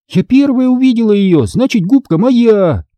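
put-on high, insistent child's claim; indignant, stretching the last words; squabbling protest. A narrator's reading. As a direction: stake your claim against your brother. Children quarrelling over the sponge.

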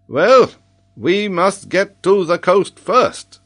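high, loud and slow, pressing the point; rally them with urgency; hammed-up urgent scholar. Urgent plan amid alarm.

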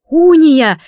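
a loud, high yell of "Уния!"; yelling a name. A narrator's reading. Narrator screaming at her friend over the video call, loud yell. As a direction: holler her name in alarm. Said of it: "завопила я".

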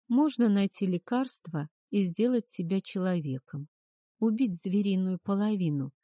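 вялая речь в полубреду; говорить, будто язык не слушается; заплетающимся языком. Acted. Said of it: "заплетающимся языком поинтересовалась я". (словно в морфиновом тумане)

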